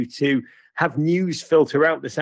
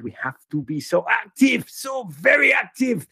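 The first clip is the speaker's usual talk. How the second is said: mock manager shout; 7 semitones higher than usual. Quoting Pep's pre-match remarks.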